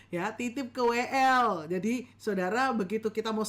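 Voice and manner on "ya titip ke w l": Ya, titip ke W L said louder, leaning hard on L; louder emphatic repeat. Shown as a demonstration. Teacher repeating the tip to pastors, louder and emphatic. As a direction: hammer the tip home with a louder voice.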